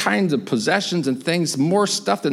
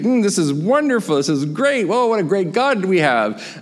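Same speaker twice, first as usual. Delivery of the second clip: acted relish, pitch lifted; mild delight; 5 semitones higher than usual. People tasting manna from heaven, lightly delighted. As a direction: savour it with a touch of wonder.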